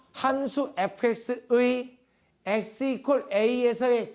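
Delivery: very slow, deliberate phrase-by-phrase delivery; slow formal dictation. Shown as a demonstration. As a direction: state it like a definition being dictated, with long pauses. (받아쓰기 시키듯 아주 천천히 또박또박)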